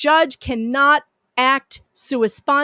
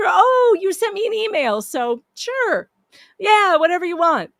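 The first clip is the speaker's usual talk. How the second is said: mock ditzy judge; 9 semitones higher, 5 dB louder than usual. Mocking a careless judge.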